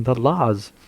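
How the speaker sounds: breathy dramatic whisper. Acted. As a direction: whisper the last word. Dramatic reading ends whispering.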